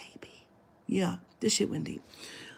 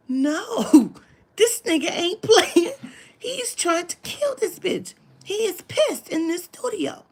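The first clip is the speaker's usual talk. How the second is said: high, loud, slow, laughing-crying; cracking up at the chaos; laughing in disbelief; 10 semitones higher, 6 dB louder, slower than usual. Retold or imitated. Shocked, laughing at fight.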